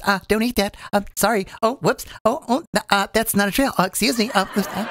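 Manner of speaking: cutesy mock narration, short interjections; lightly mocking cute commentary; cute little inflections. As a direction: imitate a narrator being oh-so-clever. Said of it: "those cute little inflections".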